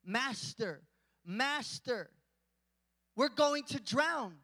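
slow, dramatised plea to wake someone; disciples' cry for help. Acted. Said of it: "woke him up, saying".

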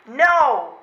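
no after no, rising until you're yelling; building to a shout. Acted. Wife refusing, building from firm no to full shout.

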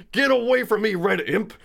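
high, loud mock scream; screaming at imp. Cadillac screaming at the red dwarf, loud and high. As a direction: shriek it out as you swing the cane.

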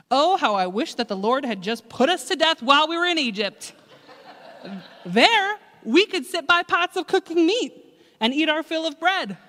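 loud, high whiny moaning; mock grumbling. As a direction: ham up the self-pitying complaint. Grumbling Israelites voiced.

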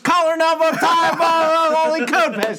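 imitating a breathless rushed read; all in one breath. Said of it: "I love how you say it without taking a breath".

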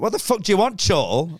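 shouted high at the Chortle reviewer, hammed up; mock furious rant. Comic on stage yelling at the review site, mock fury. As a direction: rip into the website like a wounded comic.

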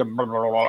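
low rumbling mock stomach noise; stomach growl imitation. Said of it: "I heard my stomach just suddenly go".

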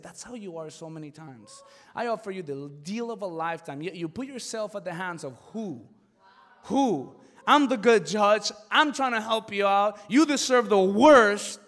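God's voice rising to a stern climax. Retold or imitated. God speaking to him.

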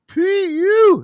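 high, loud, drawn-out stink call; comically exaggerated, high-pitched reaction to a stink; mock disgust. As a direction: sing out disgust at a stench. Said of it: "got his fucking hand over his nose".

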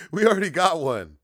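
high, loud smug guard; smug boast from the wall; mock French guard. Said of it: "He's like".

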